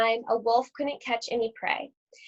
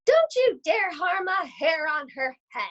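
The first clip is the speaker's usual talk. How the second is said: stern Gran; 6 semitones higher than usual. Acted. Gran threatens the wolf.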